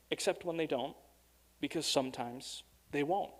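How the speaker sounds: measured storybook reading, pausing between phrases; poem read aloud. A narrator's reading. Preacher reads a Doctor Seuss poem to the congregation, measured storybook reading. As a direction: read the verse out, leaning on the rhyme.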